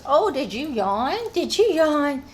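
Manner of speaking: high-lilting coo to a dog. Real, not acted. Owner notices her dog yawning, lilting baby talk. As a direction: coo the question with big pitch swoops.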